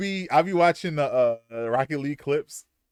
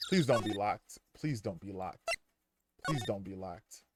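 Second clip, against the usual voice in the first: hushed pleading; 5 semitones lower, 9 dB quieter than usual. Real, not acted. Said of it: "pleading at the safe".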